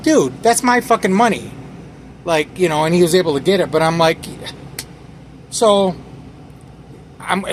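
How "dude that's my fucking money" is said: alarmed protest. Retold or imitated. Money flying away.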